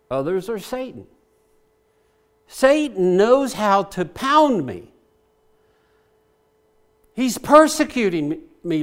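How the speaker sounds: earnest, fervent prayer voice rising and falling; pleading prayer. Acted. David voiced praying to God in trouble, fervent pleading. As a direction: pour it out to God as a plea.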